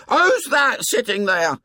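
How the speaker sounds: put-on high, startled boy's squeak; very high, frightened challenge. A narrator's reading. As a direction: squeak the question in alarm. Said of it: "His voice ran up to a squeak".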